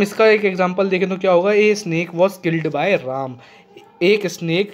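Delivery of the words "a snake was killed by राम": very slow, word by word; slow dictation. Shown as a demonstration. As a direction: dictate it clearly for copying. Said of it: "teacher dictating an example sentence". (धीरे-धीरे वाक्य लिखवाना)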